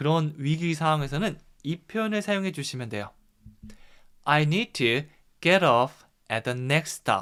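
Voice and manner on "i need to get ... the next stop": broken into short pieces with small pauses. Korean lesson on a phrase for getting off the bus: broken into short chunks with pauses. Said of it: "약간씩 끊어서 한번 얘기해 봤는데요".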